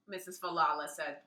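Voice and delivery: usual speaking voice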